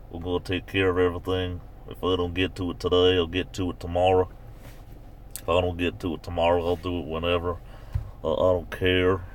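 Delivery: lightly imitated West Virginia accent; easygoing West Virginia twang, lightly done. Shown as a demonstration. Imitating folks who get to it whenever, West Virginia accent. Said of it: "the West Virginia accent more like this".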